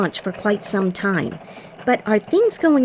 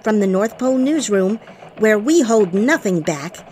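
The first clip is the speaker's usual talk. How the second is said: bright newsroom anchor read; elf news reporter. Acted.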